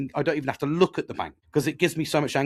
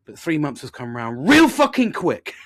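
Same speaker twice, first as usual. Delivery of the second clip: exasperated retort; 7 dB louder than usual. Retold or imitated. Retorting to wife in story.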